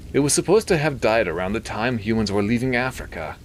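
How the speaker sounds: high, quick nasally expert; Milton. A narrator's reading. Doctor explaining the extinction to the priest, quick and nasally. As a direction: rattle it off through the nose. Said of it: "He had a nasally voice".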